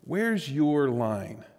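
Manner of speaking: lightly voiced nagging conscience, drawn out and soft; inner voice. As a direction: pose it slowly and quietly, like a searching inner voice. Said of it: "I heard this voice".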